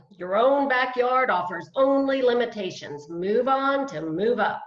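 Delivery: wife mimics her ex-husband's motto, mildly pompous; quoting ex-husband. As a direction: recite his motto like a slogan. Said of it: "That was his philosophy".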